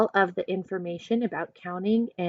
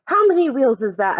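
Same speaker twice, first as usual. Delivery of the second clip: usual speaking voice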